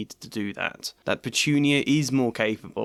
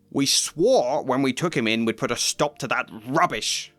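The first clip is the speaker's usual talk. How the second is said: snarl. Acted. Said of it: "snarled Uncle Vernon".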